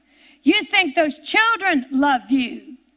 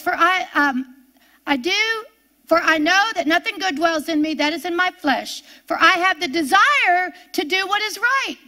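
scripture reading; 3 semitones higher than usual. Acted.

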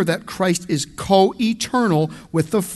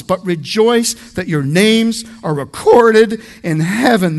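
preaching loud; 3 semitones higher, 6 dB louder than usual. Acted. Preacher exhorting the congregation.

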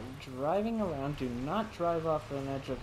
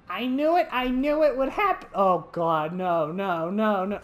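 excited outburst; 5 dB louder than usual. Real, not acted. Reacting to scare.

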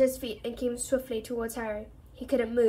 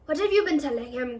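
growled; 3 semitones higher, 4 dB louder than usual. Acted. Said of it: "growled Bane".

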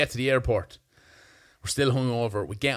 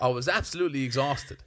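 laughing; 2 semitones higher than usual. Real, not acted. Recalling exhaustion at home, amused.

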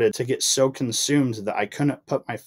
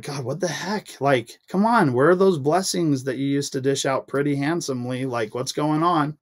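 higher, fed-up complaint to God; retold exasperation, rising and pleading; exasperated at God; 4 semitones higher than usual. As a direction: throw up your hands, what gives. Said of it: "I would just be like".

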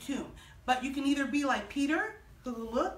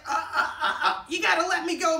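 squeezed by a hug; 3 semitones higher, 5 dB louder than usual. Acted. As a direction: struggle playfully out of a tight hug. Jesus squeezed by Mary's hug.

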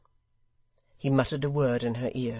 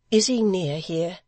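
high, louder urgent question; tense, raised woman's voice; anxious widow; 6 semitones higher, 6 dB louder than usual. A narrator's reading. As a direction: ask it in alarm, pitched up. Widow fears for her son.

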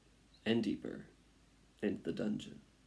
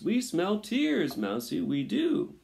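raised, gleeful rat voices; shouting rats; 9 semitones higher, 5 dB louder than usual. A narrator's reading. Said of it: "shouted the rats".

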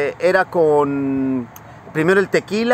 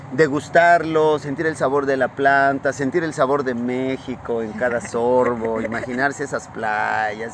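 dreamy; 5 semitones lower, slower than usual. Acted. Dreamy evocation of Mexico.

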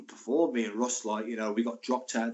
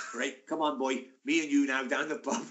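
light imitation of a South Wales accent; Swansea accent. Swansea teammate coaxing his pal out, mock Welsh accent. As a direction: have a go at a Swansea Welsh lilt. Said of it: "he's from Swansea".

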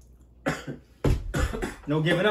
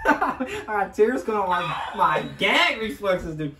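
laughing while gagging; 4 semitones higher, 3 dB louder, slower than usual. Real, not acted. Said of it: "It's killing my gag reflexes".

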